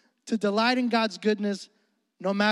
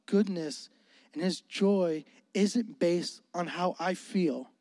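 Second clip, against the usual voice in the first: sincere prayer; 2 semitones lower than usual. Retold or imitated. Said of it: "I said".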